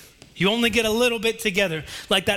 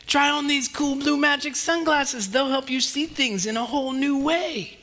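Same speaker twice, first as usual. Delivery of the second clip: Pete the Cat; 5 semitones higher than usual. Acted. Pete offers sunglasses.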